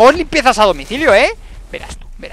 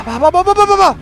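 "va" rising higher and louder to a cry; building excitement; 10 semitones higher, 4 dB louder than usual. Real, not acted. Gamer chanting during the last troll hits, building to a cry. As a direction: climb from urging to a frantic cry. Tense fight again.

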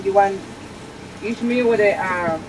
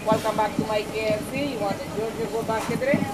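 robotic intercom voice; 6 dB quieter than usual. Real, not acted. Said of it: "She sound like a fucking robot".

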